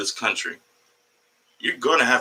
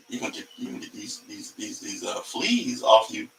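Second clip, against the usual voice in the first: muttered aside; 3 semitones lower, 7 dB quieter than usual. Real, not acted. Muttering to the cat.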